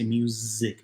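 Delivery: "music" with a buzzed Z in the middle; buzzy Z. Shown as a demonstration. Teacher showing what Spanish avoids, "music" with a buzzy Z. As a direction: hold the English Z sound in "music". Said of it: "don't have a buzzy Z sound".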